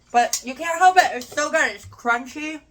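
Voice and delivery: high, loud raving with mouth full; excited. Real, not acted. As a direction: gush about the taste, mid-chew. Raving while eating.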